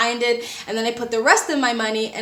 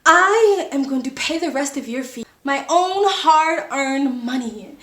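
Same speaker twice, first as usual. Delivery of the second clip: telenovela drama. Retold or imitated. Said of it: "most telenovela dramatic performance".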